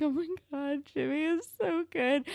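high, drawn-up fangirl gush; moved gushing. Retold or imitated. Fan recalling her reaction to Jimmy's kindness, high-pitched gushing. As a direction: gush as if touched nearly to tears. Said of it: "it almost made me cry".

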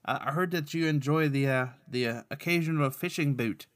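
halting, put-on Irish brogue; Patrick's Irish accent. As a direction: feel your way along in amateur Irish. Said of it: "Speaking of bad accents".

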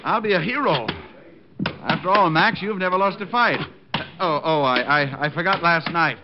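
eager, starstruck fan; gushing fan act. Pretend. Diamond plays an eager fan.

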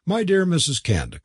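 high-pitched eager interjection; crying out. A narrator's reading. Curate seizing his chance with hostess, crying out. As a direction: cut in with a high cry. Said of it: "cried the curate".

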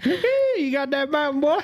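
squeaky exaggerated Utah hick; cartoonish hick Utah voice; hick Utah accent. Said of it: "best hick Utah".

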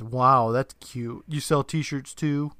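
slow, drawn-out mock admiration; unimpressed kid's slow sarcasm; sarcastic. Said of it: "rolls his eyes and sarcastically says".

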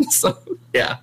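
breathy high laugh trailing off; high giggle. Real, not acted. Streamer laughing after her story, high giggle. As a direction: let a high giggle fade out.

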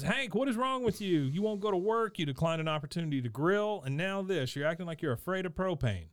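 high, exasperated scolding wife; Peggy scolding. Retold or imitated. Wife scolding scared husband over propane, high exasperated. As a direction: pitch it up and nag him hard. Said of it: "She, she says".

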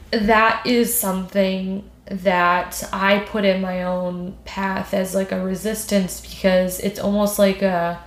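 slow, tearful, voice breaking; talking through tears, barely holding on; crying voice. Real, not acted. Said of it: "your crying voice is iconic".

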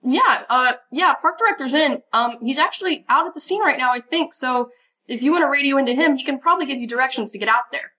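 lightly voiced young ranger, chipper and helpful; eager young ranger Riley. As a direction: keep Riley bright and eager to please. GM holds Riley voice.

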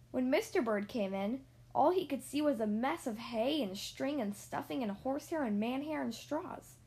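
put-on reading a picture book aloud to children; story narration. A narrator's reading. Reader telling children about Mister and Missus Bird, storybook narration. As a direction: tell it like a bedtime story.

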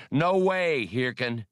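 loud, high flat no; firm refusal. Acted. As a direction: shut him down hard.

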